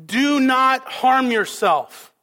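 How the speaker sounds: loud cry. Retold or imitated. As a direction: call it out slowly to stop him. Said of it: "in a loud voice".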